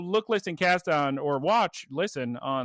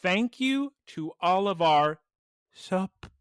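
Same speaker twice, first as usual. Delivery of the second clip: attempted American accent; 2 semitones higher than usual. Shown as a demonstration. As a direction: labour over each word in an American accent. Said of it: "it somehow comes out Irish".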